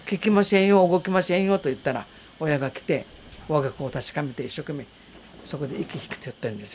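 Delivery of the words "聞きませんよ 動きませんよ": retold anxious call, louder and higher; alarmed call. Girl calling the parents to the unmoving child. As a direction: call out in alarm to the grown-ups.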